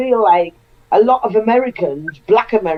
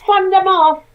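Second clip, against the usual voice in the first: Jamaican saying; 9 semitones higher than usual. Retold or imitated. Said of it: "That's what the Jamaicans would say".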